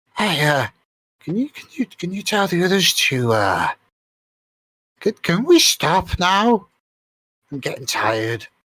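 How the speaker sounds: very high, sneaky, conspiratorial little kobold voice. A kobold sneaks up close to a party member, hushed kobold voice. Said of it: "says in a hushed voice".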